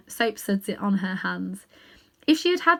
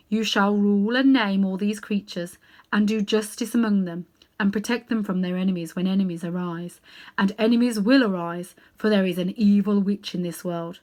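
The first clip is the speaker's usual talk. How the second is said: grave lion king; 4 dB louder than usual. Acted. Aslan names the cabby and wife king and queen, solemnly.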